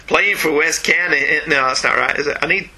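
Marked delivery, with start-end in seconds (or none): 0.1-1.4 slow, tentative Southern accent attempt. Shown as a demonstration. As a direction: try a drawn-out Southern accent, lightly. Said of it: "should I have done that in a Southern accent".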